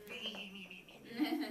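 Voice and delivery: lightly voiced squabbling kids; a mild squabble of "me, me, me"; a hint of bickering children; childish me me me. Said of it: "the green group and the orange group going".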